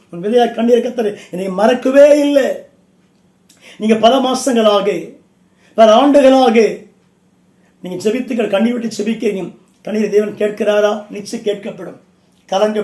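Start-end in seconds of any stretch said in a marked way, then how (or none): 0.1-6.6 forceful preaching. Real, not acted. Rises back into forceful preaching.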